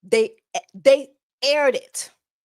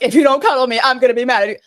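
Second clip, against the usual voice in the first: loud mocking clingy plea; loud mocking imitation of a clingy girl; mock clingy whine; 8 dB louder, much faster than usual. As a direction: parrot her line back, loud and whiny. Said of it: "I'm like".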